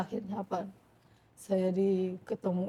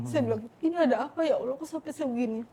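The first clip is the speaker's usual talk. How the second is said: laughing through tears; 5 semitones higher than usual. Retold or imitated. Retold crying at prayer.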